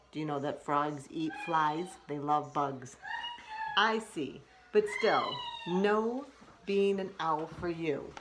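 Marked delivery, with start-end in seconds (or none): 3.8-8.1 high, loud cartoon exclaim; a frog bursting out; shrieking cartoon frog; loud squeaky frog.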